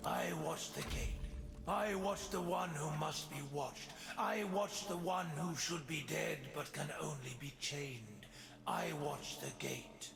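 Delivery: rasping, dusty voice. A gate watcher answers a newcomer, in a raspy, dusty voice. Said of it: "he rasps, as if there were dust in his voice".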